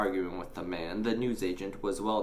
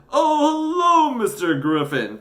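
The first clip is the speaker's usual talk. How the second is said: bright greeting; 12 dB louder than usual. A narrator's reading. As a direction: greet as if all is perfectly normal. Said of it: "Raj brightly".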